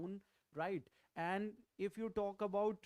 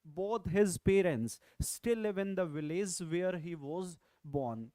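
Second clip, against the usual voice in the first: a louder, clear model sentence; 5 dB louder than usual. Shown as a demonstration. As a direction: read the corrected sentence out clearly. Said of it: "So sentence will be like".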